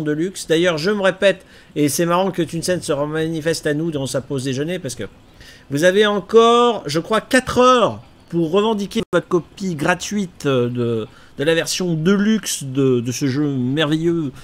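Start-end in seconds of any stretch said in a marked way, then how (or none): 5.7-14.3 louder pitchman sales voice; infomercial host. Pretend. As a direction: sell it like a TV shopping host. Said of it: "J'ai l'impression de faire animateur de téléachat".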